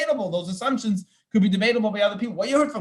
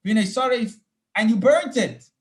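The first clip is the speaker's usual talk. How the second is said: Moses questioning; 7 semitones higher, 4 dB louder than usual. Retold or imitated. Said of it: "Moshe starts questioning".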